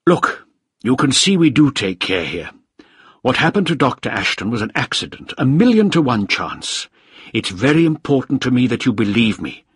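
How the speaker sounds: a hint of a persuasive official; lightly voiced official. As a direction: press to be believed. Voices Krieger in dialogue.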